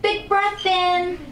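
high, loud and slow cue; slow loud urging. Shown as a demonstration. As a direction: stretch big breath in high and loud. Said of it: "coaching the breath".

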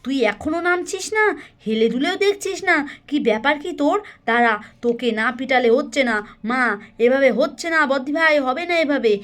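mildly heated scolding; very angry mother, acted. Mother threatens child who won't come down, mildly angry. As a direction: scold the child with a touch of temper. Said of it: "রূপার মা ভীষণ রেগে যায়".

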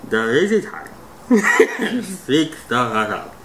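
talking through a cheek stretcher; words blurred by wide-pulled lips; lips stretched wide. Real, not acted. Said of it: "oh, you're drooling".

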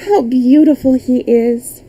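lifted, admiring princess voice; a touch of girlish delight; pleased exclamation. A narrator's reading. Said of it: "clapped her hands with pleasure".

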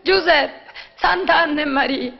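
exasperated outcry. Acted.

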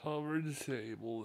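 ordinary talk

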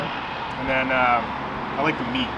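talking around a bite of food; chewing between words; mouth full, chewing. Real, not acted. Seen 0: Took a bite just before; jaw and lips keep working while speaking.

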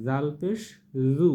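gentle dental z on 'জু'; soft zal sound. Shown as a demonstration. Teacher models zal pesh, a soft dental z in 'জু'. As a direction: put tongue tip to upper teeth and soften 'জু'. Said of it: "নরম করে উচ্চারণ করতে হবে".

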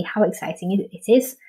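mildly exclaimed example sentence; exclaiming. Shown as a demonstration. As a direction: lively read exclamation, lifting at the end. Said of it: "She's exclaiming it".

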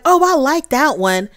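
high mock approving mom; a high sing-song imitation of the oblivious mom; lightly mocking mother voice. Mom's approving quote, mocked.

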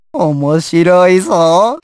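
slow, low relish rising at the end; sinister amusement. Acted. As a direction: stretch it out with amused menace. Villain amused by his foe. (ゆっくり不敵に面白がる)

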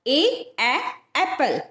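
ए said as a bare short vowel, then एप्पल; letter sound ए then the word एप्पल; phonic sound. Shown as a demonstration. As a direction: sound it out slowly for a child. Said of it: "ए का sound होता है ए".

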